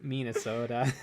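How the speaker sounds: Minnesota with long rounded Upper Midwest vowels; imitating a friend's Minnesota accent. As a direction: say Minnesota like a local would. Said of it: "And then they'd be like".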